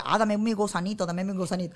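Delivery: lagarto que pide su gusanito; reptile pet voice. Acted. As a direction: pedir la comida como mascota. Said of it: "él habla". (voz de dragón barbudo que pide)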